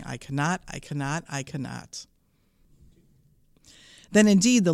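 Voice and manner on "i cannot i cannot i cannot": softer, sinking, rhythmic refrain; tired chugging. A narrator's reading. Old engine rumbling off to the roundhouse, weary chugging. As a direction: chug it out, fading away. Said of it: "rumbled to the roundhouse chugging".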